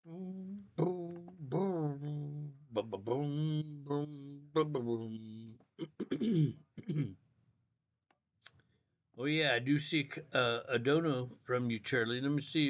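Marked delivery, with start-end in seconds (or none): 0.0-6.5 quiet percussive mouth sounds to oneself; idle booming. Real, not acted. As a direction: hum out booms absent-mindedly while busy. Idly making noises while checking screen.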